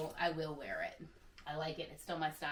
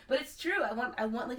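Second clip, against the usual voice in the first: real laugh, much higher in pitch; 7 semitones higher, 5 dB louder than usual. Real, not acted. Confessing her Mrs Claus wish, laughing. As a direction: giggle out the admission.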